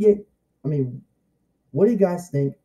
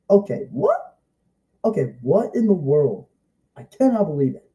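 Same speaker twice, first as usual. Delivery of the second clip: much higher squeak on what, then settling down; baffled surprise; 3 semitones higher than usual. Retold or imitated. Kid reacting to two Amys appearing, baffled surprise. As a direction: react like you just saw double. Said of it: "And I'm like".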